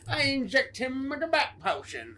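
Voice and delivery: put-on talking-monster voice; lightly voiced speechifying monster; talking creature impression. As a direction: play the creature announcing its scheme. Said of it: "He's like".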